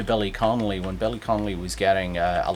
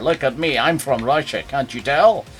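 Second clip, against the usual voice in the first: lightly voiced Scottish actor passing as Russian; light celebrity impersonation with slurred s; Sean Connery. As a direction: play a film star's unconvincing Russian. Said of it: "I was doing Sean Connery's".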